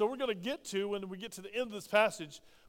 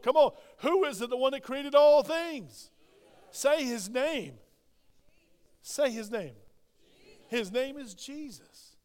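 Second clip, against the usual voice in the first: preaching at full force; 4 semitones higher, 5 dB louder, slower than usual. Real, not acted. Preacher urging congregation to answer.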